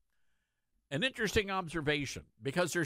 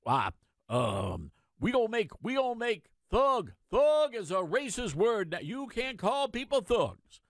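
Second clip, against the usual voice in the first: mock pompous official, louder and higher; mocking caricature; 6 semitones higher, 3 dB louder than usual. Host mocking whoever decided thug is racist, in a loud high caricature voice. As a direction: sneer out the new rule like a self-appointed word cop.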